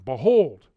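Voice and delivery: "behold" suddenly loud; emphatic proclamation. Real, not acted. Preacher pointing out the same pattern, emphatic proclamation. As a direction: punch BEHOLD out of calmer talk.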